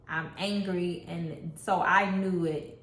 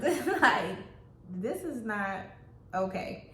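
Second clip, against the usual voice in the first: laughing aside; 3 semitones higher, slower than usual. Real, not acted.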